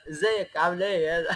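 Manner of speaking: put-on slow Egyptian-accented greeting; Egyptian intonation. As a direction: greet like a Cairene, drawn out. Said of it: "بالنبرة صوت مصري أخويا".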